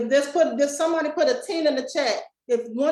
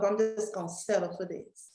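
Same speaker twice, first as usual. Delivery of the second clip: mock resigned murmur; 4 semitones lower, 6 dB quieter than usual. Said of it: "the mask of".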